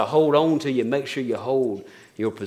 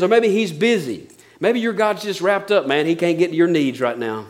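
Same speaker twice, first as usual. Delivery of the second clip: mocking; 4 semitones higher than usual. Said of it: "He's mocking them".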